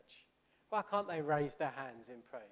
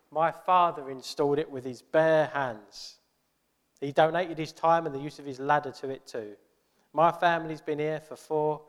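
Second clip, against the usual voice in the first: indignant church member; 6 dB louder than usual. Acted. Offended church member in a joke.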